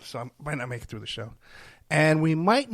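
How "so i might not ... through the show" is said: much softer, sinking to a near whisper; tired, fading, barely getting it out; worn-out host confessing a rough day, softly; low and weak. Real, not acted. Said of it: "I'm not feeling so good today".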